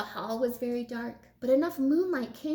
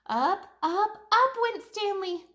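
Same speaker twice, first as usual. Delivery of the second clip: rising up; 8 semitones higher, 4 dB louder than usual. A narrator's reading. Narrator showing Stanley soaring up, rising pitch. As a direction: voice climbing higher on each up.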